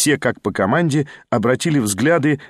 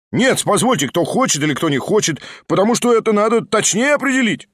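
higher, insistent objection; voices objecting; 8 semitones higher than usual. A narrator's reading. Several members object to unclear voting rules, insistently. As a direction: break in and demand clarity. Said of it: "раздались два-три голоса".

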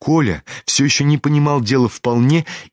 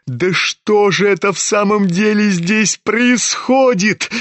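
put-on higher, indignant boy's outburst; boiling over; 10 semitones higher, slower than usual. A narrator's reading. Kolya suddenly boils over at his father, indignant. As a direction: demand it in sudden exasperation. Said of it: "Закипел вдруг Коля".

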